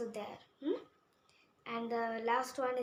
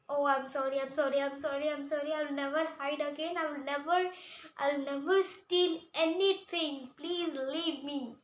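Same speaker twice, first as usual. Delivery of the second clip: pleading; 3 semitones higher, 3 dB louder than usual. Acted. Caught thief begs for mercy.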